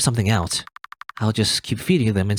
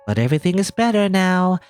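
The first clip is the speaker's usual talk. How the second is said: mother's voice; 4 semitones higher than usual. Acted. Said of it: "the voice of your mother".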